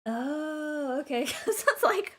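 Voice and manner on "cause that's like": breaking into a laugh, higher. Real, not acted. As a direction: giggle through the words. Laughing at the long book.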